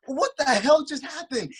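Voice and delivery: high, slow, drawn-out incredulity; stunned disbelief. Retold or imitated. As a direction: stretch out the astonished question. Retold shock at knockout.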